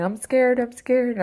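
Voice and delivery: quick re-enactment of frightened crying; retold scared crying. Retelling their own screaming fit, imitated scared cry. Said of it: "I'm crying".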